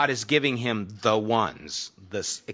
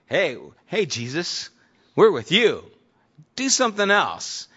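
higher, louder pushy crowd calling out; fickle crowd; 7 semitones higher, 6 dB louder than usual. Retold or imitated. Crowd calling to Jesus for more food, loud and pushy. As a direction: heckle him like a fickle crowd that wants more.

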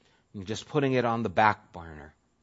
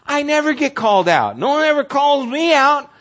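challenging retort; 14 semitones higher, 7 dB louder than usual. Retold or imitated. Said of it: "I go".

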